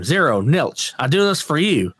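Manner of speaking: put-on half-hearted Baby Billy bit; Baby Billy impression. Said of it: "Baby Billy?".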